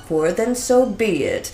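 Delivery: genie. Acted. Genie grants wish.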